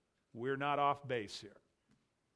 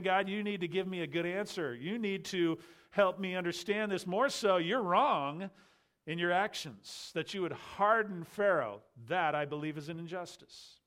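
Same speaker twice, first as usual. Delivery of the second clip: indignant challenge to God, pitch somewhat raised; impertinent; 3 semitones higher, 3 dB louder than usual. Acted. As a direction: put God on trial, pressing each charge. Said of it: "starting to see the impertinence".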